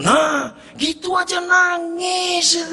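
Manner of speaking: high, slow, half-crying voice; a touch of mock sobbing; mock tearful. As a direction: play at weeping.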